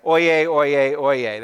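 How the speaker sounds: loud, official herald call; royal herald. Retold or imitated. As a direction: ring out like a court crier. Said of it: "makes you sound really official".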